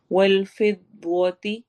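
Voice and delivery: फिद्वती slow with a thick heavy द्व; slow, heavy dwa. Shown as a demonstration. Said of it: "द्वा मोटा है".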